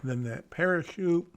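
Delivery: talking around ice in the mouth; mouth full. Real, not acted. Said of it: "Sorry, I've got ice in my mouth".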